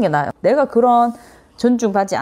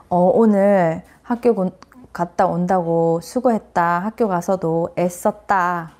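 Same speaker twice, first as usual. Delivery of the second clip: slow, gentle thanks to a school-refusing son; slow praise to child; slower than usual. Retold or imitated. Mother praising her son for going to school, slow and gentle. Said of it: "이 어머니가".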